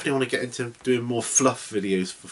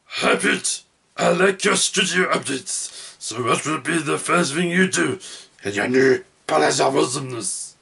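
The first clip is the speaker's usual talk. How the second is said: higher, louder growly ork voice; Orky voice; 4 semitones higher, 5 dB louder than usual. Acted. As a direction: read it like a rowdy Warhammer ork. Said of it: "in my best Orky voice".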